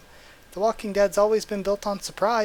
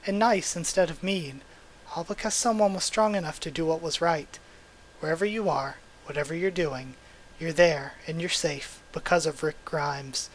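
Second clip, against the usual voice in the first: calm storybook reading voice; gentle picture-book narration; story narration. A narrator's reading. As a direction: read it like a bedtime story. Reads the comic's story narration.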